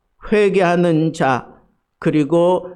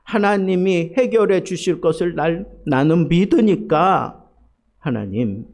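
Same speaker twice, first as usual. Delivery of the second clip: 차분한 기도. Retold or imitated. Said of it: "그러면서 기도가 바뀝니다".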